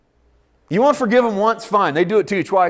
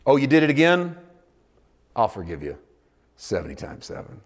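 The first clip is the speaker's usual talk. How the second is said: gentle forgiving God; 3 semitones lower, 4 dB quieter than usual. Acted. God voiced forgiving again.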